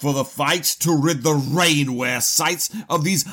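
mock-indignant letter voice; hammed-up pompous indignation; pompous outrage. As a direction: read it like an outraged old colonel.

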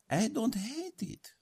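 breathy whispered aside. Acted. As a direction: whisper it to yourself. Whispers about her new haircut.

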